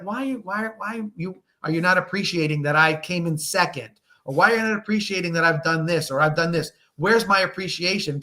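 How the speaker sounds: lightly mocking, plaintive complaint; mild whine. Commentator mimicking a player who wants appreciation, mildly whiny. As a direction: imitate a golfer whining for recognition. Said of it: "That's why he looks whiny".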